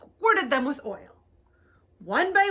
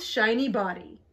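ordinary delivery

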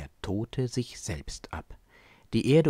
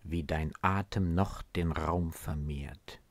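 measured poem reading with long pauses; solemnly paced verse, set apart by silences; poem recitation. Acted. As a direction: recite the verse line by line, letting each phrase settle. Recites a poem before explaining it.

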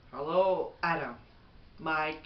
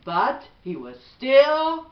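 gentle, even bedtime storybook read; reading to children; 3 dB louder than usual. Acted. Mother reading a bedtime book to her son, gentle storybook voice.

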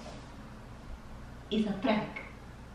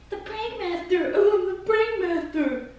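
higher-pitched mimicking of a boast; mock the prankster in a raised voice; mocking imitation; 8 semitones higher than usual. Wife throws husband's prank master boast back at him, mocking. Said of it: "You're like".

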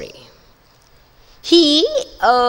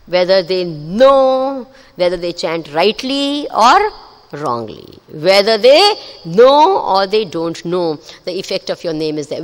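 slow, lower devout conclusion; bow down and say it with reverence; reverent; 5 semitones lower than usual. Acted. Lakshmi's reverent closing words.

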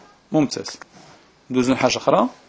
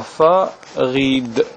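slow syllables; much slower than usual. Shown as a demonstration. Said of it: "إذا نقراوها".

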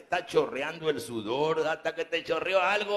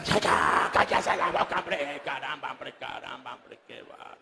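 ventriloquist dummy scolding. Acted.

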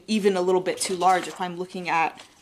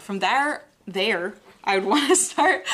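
pirate-like accent; 2 semitones higher, 5 dB louder, slower than usual. Real, not acted. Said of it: "Amanda's laughing at me now".

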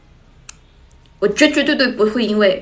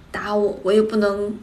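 ordinary delivery

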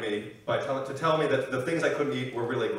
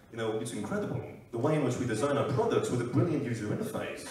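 lightly voiced product-designer impression; Johnny Ive; 3 semitones lower, 4 dB quieter than usual. Apple designer presenting products, lightly put-on presenter's voice. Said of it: "Johnny Ive, Apple".

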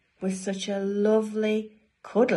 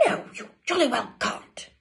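mildly cross, higher storybook voice; firm refusal; 5 semitones higher, 3 dB louder than usual. Acted. Dudley to his sisters at the door, mild cross refusal. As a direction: refuse with a touch of annoyance.

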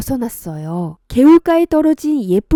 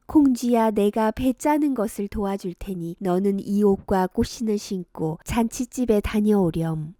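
gentle fairy; 2 semitones lower, 3 dB quieter than usual. Acted. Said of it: "미소를 띠며 콩쥐에게 말했어요".

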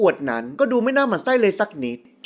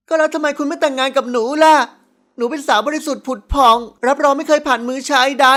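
put-on higher-pitched girl making her bold case; brazen young daughter; 5 semitones higher, 3 dB louder than usual. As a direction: play a cheeky, insistent daughter.

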